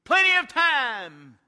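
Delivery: mother dismissing her son, loud and slow; dismissive hush. Acted. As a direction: wave the child away impatiently. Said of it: "And I told him".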